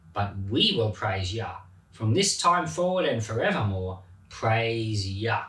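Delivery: measured, solemn psalm reading; scripture reading. Acted. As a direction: reverent Bible reading voice. Reads the psalm aloud.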